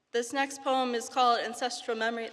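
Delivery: giggly nervous intro; nervous open mic poet. Real, not acted. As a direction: introduce the poem with a shy laugh. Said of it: "repeated title".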